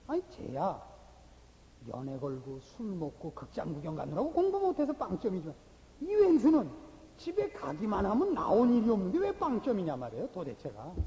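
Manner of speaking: acted scolding that bursts out loud midway; mock telling-off of a failing student; exasperated scolding. Preacher mimics scolding over zero test scores, exasperated. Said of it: "똑같이 꾸중하고 있는 일이라고요".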